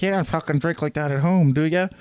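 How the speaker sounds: mock a local bitching at a tourist; griping local guy. Local man bitching about the beer challenge, griping. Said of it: "some guy was bitching at me".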